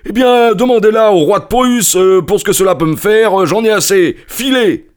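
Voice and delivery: loud, high outburst; furious merchant. A narrator's reading. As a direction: send him packing at full temper. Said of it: "il s'avança furieux".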